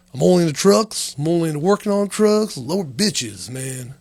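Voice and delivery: hammed-up truck dude boast; mock macho dude. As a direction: play a meathead bragging about trucks. Voicing the extreme dude persona.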